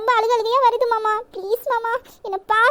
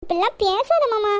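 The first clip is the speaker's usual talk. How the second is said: slow tearful pleading; girl pleading through tears; crying plea; slower than usual. Acted. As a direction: cry as you beg him.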